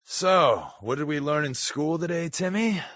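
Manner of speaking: a hint of a cheery teacher; mock teacher. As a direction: play a chirpy schoolteacher asking little Timmy. Mocks a teacher addressing a kid.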